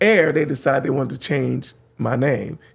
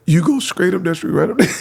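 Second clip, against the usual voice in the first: laughing through it; 3 semitones higher than usual. Retold or imitated. DJ retelling her directions while cracking up.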